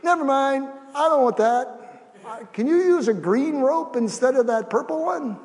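high, loud, fussy objection; picky refusal. Acted. Drowning person fusses at the rescuer, loudly picky. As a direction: turn the rescue down like a choosy customer.

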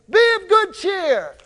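high, lifted call of good news; heartening call. Acted. Crowd telling the blind man Jesus is calling him, heartening call.

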